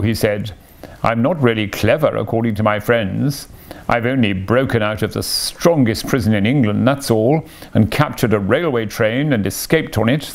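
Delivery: lightly voiced Toad with lilting, rising ends; boastful Toad, mock-modest. Toad telling Mole his little adventures, mock-modest boasting. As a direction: toss off each feat as if it were nothing.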